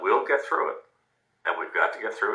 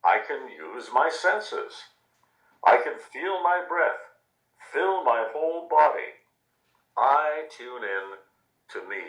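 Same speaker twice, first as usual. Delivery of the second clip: put-on higher, slow and dreamy child's voice; lightly voiced little girl; 6 semitones higher than usual. Reading the girl's words to listeners, a slow, higher, dreamy child voice. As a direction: ease each phrase out like a calm young girl. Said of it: "She says".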